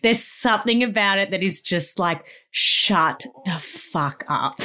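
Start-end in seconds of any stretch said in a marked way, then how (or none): 2.5-4.6 exasperated snap. Retold or imitated. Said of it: "And I'm just".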